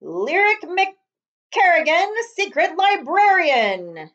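loud, slow, high title announcement; announcer. Acted. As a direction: proclaim the hero's title.

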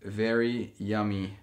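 seductive. Pretend. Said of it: "That is so sexual".

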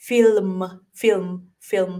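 "ฟิลม" cut short, L still sounded; "ฟิลม" as a brief English "film"; shortened. Shown as a demonstration. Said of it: "ให้มันสั้นลง".

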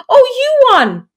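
put-on high, surprised little girl; a four-year-old realising her mum won, high and surprised. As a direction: gasp it out like a child who just realised. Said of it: "she said".

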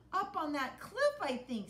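pirate Wavy voice. Acted.

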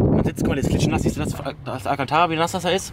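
talking through gusts on the mic; wind on mic. Real, not acted. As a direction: wind noise blowing on the microphone. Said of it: "Tut mir leid für den Wind".

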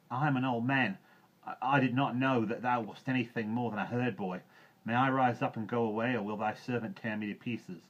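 put-on high, loud old man's pleading; frightened old man. A narrator's reading. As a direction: plead as a fearful old villager.

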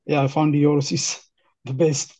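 ordinary talk, nothing marked

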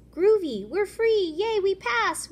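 high, loud happy cheer. Acted. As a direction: celebrate like a little fish. Fish cheering.

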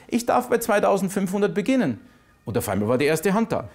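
loud, fast-rising auction call; auctioneer. Retold or imitated. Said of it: "da bin ich hoch ans Mikrofon".

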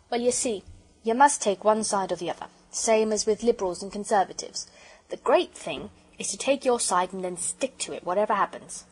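lightly voiced explaining porter; a hint of working-man speech; opinionated porter. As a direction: lay it out as a homespun railwayman.

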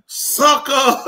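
the pedicurist's word squeezed out through laughter; laughing mock. Pedicurist laughing at buddy's toe, laughing mock. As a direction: laugh it out like the lady did. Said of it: "She was just laughing like".

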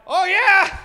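high, loud fake enthusiasm; mock eager. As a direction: play along nervously. Nervous fake agreement.

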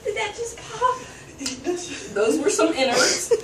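spoon against lips; chewing while talking. Real, not acted. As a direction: mouth partly full. Seen 0: Spoon held at lips, mouth chewing throughout the labelled words.

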